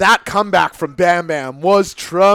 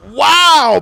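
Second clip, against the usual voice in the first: surprised wow; 12 semitones higher, 9 dB louder than usual. Real, not acted. Reaction to big move.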